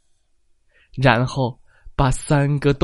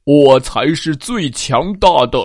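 roaring giant. Acted. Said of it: "巨人咆哮着".

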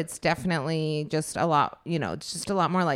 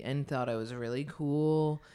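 slow; 4 dB quieter than usual. Retold or imitated. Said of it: "I used to be so slow".

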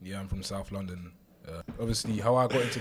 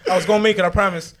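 laughing through the words; giggling while insisting; 11 semitones higher, 16 dB louder, much faster than usual. Real, not acted.

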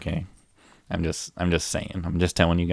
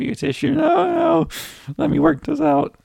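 very high, loud hammed-up sob voice; mock crying voice; 4 dB louder than usual. Refusing the tissue while mock crying, high and loud. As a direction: blubber it out like a fake weeper.

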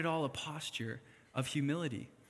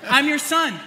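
high, loud hammed-up whine; whiny son; 12 semitones higher, 11 dB louder than usual. Son on his dad's back demanding more love, mock whining. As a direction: play the wounded son, laughing through it. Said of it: "I jump on his back, and I say".

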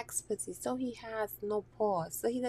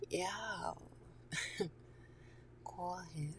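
conspiratorial whisper; 2 semitones lower, 10 dB quieter than usual. Retold or imitated. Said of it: "she'd be like".

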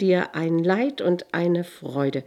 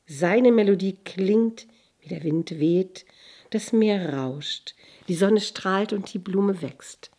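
higher, louder excited cry; jester calling out; 3 semitones higher, 8 dB louder than usual. A narrator's reading. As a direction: shout it gleefully like a fool tumbling. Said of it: "rief er".

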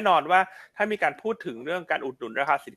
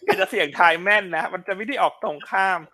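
laughing while talking; 5 semitones higher than usual. Real, not acted. Teasing the wrong fortune-teller.

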